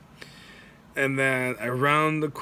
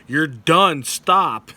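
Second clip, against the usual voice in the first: yelling at runner; 3 semitones higher, 7 dB louder, much slower than usual. Retold or imitated. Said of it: "the guy at the end was like".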